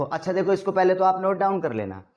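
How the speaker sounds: normal talking voice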